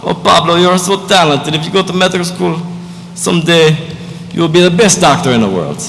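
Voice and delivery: put-on proud mama with a Spanish accent, lilting up high. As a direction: play a doting mom from Spain, Spanish accent. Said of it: "I tweak my accent a little bit".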